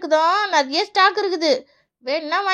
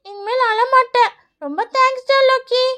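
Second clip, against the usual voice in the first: put-on grateful child; 3 semitones higher than usual. Child promises friend not to cry, grateful. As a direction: promise and thank him in a little voice.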